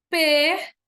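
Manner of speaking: "Perdeste-o" as per, des, tio; syllable by syllable. Shown as a demonstration. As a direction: dictate "Perdeste-o" in long separate chunks. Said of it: "A tendência é eu juntar aqui".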